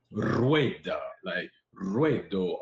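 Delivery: Spanish words with a rolling initial R; rolled R. Shown as a demonstration. Giving examples of Spanish words, rolled R. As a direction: trill the R that opens "rueda" and "ruedo". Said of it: "they know how to roll the R".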